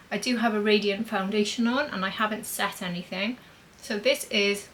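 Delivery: talking around a mint; words slightly rounded by a mint in the mouth. Real, not acted. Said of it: "sorry, I've got a mint in my mouth".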